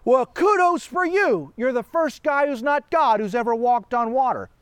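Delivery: mock praise. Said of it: "what did Jesus say".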